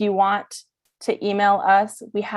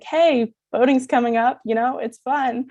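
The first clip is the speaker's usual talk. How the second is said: higher, lightly peppy mock text to a friend; upbeat friendly nudge; 5 semitones higher than usual. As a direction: casually chirp a reminder to a pal. Voices a friendly reminder text.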